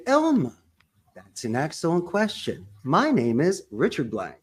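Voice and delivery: bright on Elma, then even; buffer greeting. Shown as a demonstration. Caller greets the receptionist by name, friendly. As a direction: warm cheerful phone opener. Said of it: "I would say".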